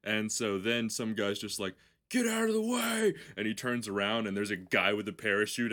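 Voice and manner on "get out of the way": high yelled warning, much louder; shout. Retold or imitated. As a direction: bark it at the crowd, high and loud. Guy shoves through to jump.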